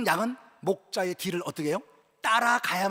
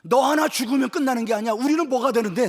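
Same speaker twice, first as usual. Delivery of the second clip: mildly raised, indignant complaint; blunt rebuke; 5 dB louder than usual. Acted. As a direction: act out a rough-spoken telling-off. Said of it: "그냥 막말로 얘기해보게".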